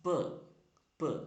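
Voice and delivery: "p" as a short "puh"; letter sound p. Shown as a demonstration. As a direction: say "p" as its sound, not "pee". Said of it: "The pronunciation is".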